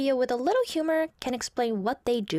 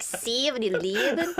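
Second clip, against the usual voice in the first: Southern demo with stretched "ee" vowels; Southern accent. Shown as a demonstration. Guest coaches host, laughing Southern accent with long "ee". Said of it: "you need more, like, "ee" sound".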